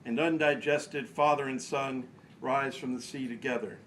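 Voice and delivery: measured recital in short phrases, pauses between; poetry reading. Acted. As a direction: read the poem out line by line, deliberately. Reads own poem aloud.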